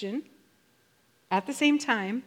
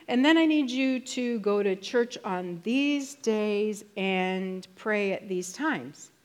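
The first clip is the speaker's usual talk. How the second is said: mock demanding version. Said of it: "He doesn't say".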